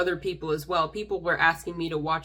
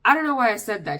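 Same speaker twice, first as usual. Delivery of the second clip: John Mulaney impression; much faster than usual. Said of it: "To quote the late, great John Mulaney".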